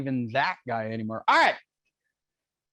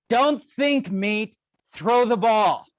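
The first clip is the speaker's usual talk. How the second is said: higher, barked catcher's orders; Bull Durham impression; 5 semitones higher, 3 dB louder, much slower than usual. Coach quoting Bull Durham to students, higher mock bark. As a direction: bark it like a hammed-up baseball catcher. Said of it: "that's the best Bull Durham".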